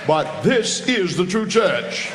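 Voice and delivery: high, loud, slow shouted declaration; retold preacher's shout. Old pastor tells the young preacher, shouting it slowly. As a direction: bellow it like a preacher hammering home his point.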